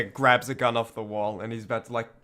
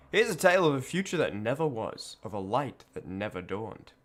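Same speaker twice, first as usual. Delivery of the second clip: dramatic narration. Acted. Reads game story text.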